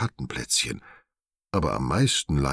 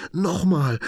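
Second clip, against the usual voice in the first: much higher, louder begging cry; high eager plea; excited shout; 5 dB louder than usual. A narrator's reading. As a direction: demand more with glee. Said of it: "ruft er begeistert".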